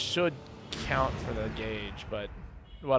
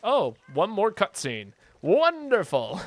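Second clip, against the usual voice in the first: louder, higher burst of joy; delighted; 7 semitones higher, 6 dB louder than usual. Real, not acted. Streamer thrilled at one more cutscene, louder and higher. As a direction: cheer at the extra scene.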